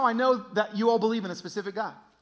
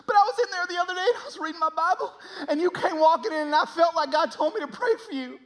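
high, frantic redneck confession, building louder; redneck stranger; 11 semitones higher, 5 dB louder than usual. Retold or imitated. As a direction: pour it out as a hammed-up, overwrought redneck. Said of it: "the most redneck human being you've ever met".

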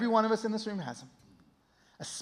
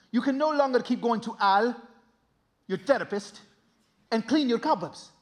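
wise immigrant dad. Retold or imitated. Dad advising Carlitos to kill the spider, measured.

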